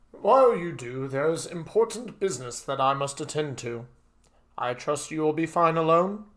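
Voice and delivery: lightly voiced dutiful servant; a hint of a courteous butler excusing himself; polite butler, rising into a question; formal butler.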